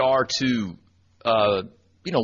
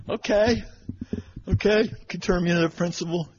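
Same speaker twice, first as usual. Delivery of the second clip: higher, humoring her with a light sing-song; mock placating reply; 6 semitones higher than usual. Sub humoring the angry custodian, mock placating. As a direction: play along, soothing her like a child. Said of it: "And so".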